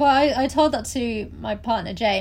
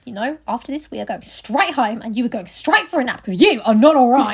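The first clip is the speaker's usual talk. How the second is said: firm mum scolding, louder towards the end; retold stern scolding that builds; mock telling-off; 6 dB louder than usual. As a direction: imitate a fed-up mum laying down the law. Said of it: "And she went; I really felt the telling off".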